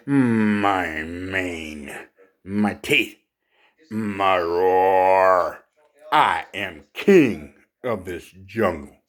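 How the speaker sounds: lightly voiced boastful lion, drawn-out words; proud lion. Lion declaring himself king of the jungle, a hint of pomp. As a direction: draw out each possession like a lion boasting. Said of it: "proud as can be".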